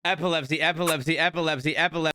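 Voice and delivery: quick, even tongue-twister run on request; fast repetition. Shown as a demonstration. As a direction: rattle the word off repeatedly, no gaps. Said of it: "say epilepsy fast".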